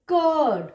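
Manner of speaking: "कर्ड" with a long vowel and no r. Shown as a demonstration. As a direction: stretch the vowel of "कर्ड", r silent. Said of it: "हमें आ ही बोलना है".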